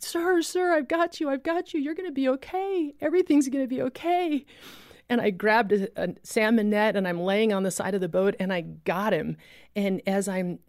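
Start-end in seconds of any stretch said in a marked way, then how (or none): 0.0-4.4 high calling shout to a drowning man; urgent shout to a man in the water; retold shout. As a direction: call out high to keep him with you. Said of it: "and I just shouted".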